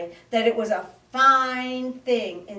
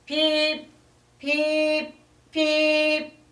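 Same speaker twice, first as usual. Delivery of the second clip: high chirping peeps, louder; frog peeps; 8 semitones higher, 4 dB louder, much slower than usual. Acted. Frog call heard nearer, high chirps.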